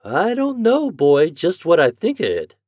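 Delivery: mother unsure about the scheme; slow and doubtful. Acted. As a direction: weigh each word slowly. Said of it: "said his mother slowly".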